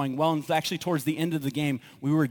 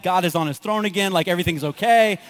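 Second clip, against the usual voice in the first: louder, mock-jubilant relief; retold elation; 2 semitones higher, 6 dB louder than usual. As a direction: celebrate like a relieved fan, half joking. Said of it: "I'm, like, going nuts".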